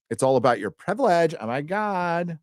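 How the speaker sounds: lightly put-on scolding, rising into a high wail; mildly mock the privilege lecture; mock exasperation. Mocking talk of privilege.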